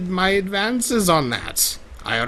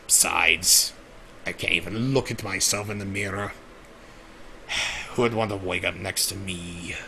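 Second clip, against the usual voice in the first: mopey self-pity; 8 semitones lower, 9 dB quieter than usual. Acted. Self-pity after boast.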